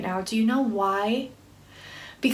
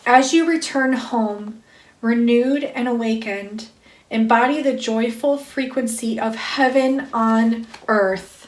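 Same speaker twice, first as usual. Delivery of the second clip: spiritual card reading. Acted. Reader to listeners awakening them to love, intoned spiritual reading. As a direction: read it as a measured invocation. Reads card message aloud.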